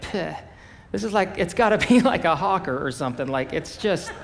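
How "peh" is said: a light little "peh" spit noise; mock spit. Shown as a demonstration. Preacher showing what it wasn't like, mock spit. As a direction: imitate a feeble, polite spit. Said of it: "this isn't like spit, like".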